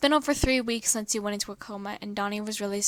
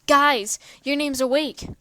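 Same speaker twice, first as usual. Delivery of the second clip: loud excited yell, higher; 4 semitones higher, 8 dB louder, slower than usual. A narrator's reading. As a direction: burst in yelling the news. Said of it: "yelled out".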